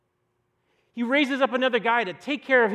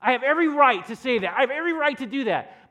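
every punched, louder; stress on every; 4 semitones higher, 6 dB louder than usual. Real, not acted. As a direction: lean hard on every. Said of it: "preacher stresses every".

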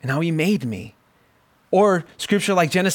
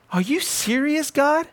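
much higher, rising in disbelief; incredulous to God; 11 semitones higher than usual. Real, not acted. Preacher marvelling aloud at God's sense of humor, incredulous high rise. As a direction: ask heaven, half laughing in amazement.

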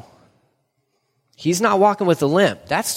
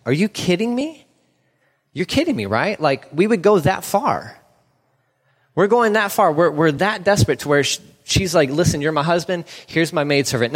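disbelief. Retold or imitated. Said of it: "you're like".

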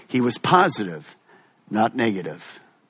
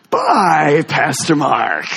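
imitating a choir calling goodbye; called-out goodbye; much slower than usual. Departing choir waves to the pastor, imitated farewell call. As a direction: draw out a mock farewell call.

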